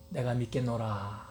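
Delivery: low, slow, quiet stubborn refusal; doubting Thomas. Acted. Thomas refusing to believe the disciples, low and slow.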